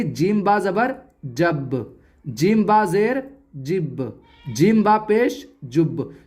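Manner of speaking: slow spelling, final b of जब, जिब, जुब bounced; qalqalah bounce. Shown as a demonstration. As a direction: give जब, जिब and जुब a light echo on the closing b. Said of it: "ऐसे ही". (जब, जिब, जुब के ब पर हल्का झटका)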